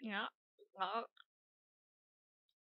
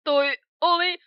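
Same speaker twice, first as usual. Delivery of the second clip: high, slow ecstatic yell; overjoyed pony whooping; thrilled shout; 12 dB louder, much slower than usual. Acted. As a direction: scream with sheer delight. Thrilled after the potion explosion.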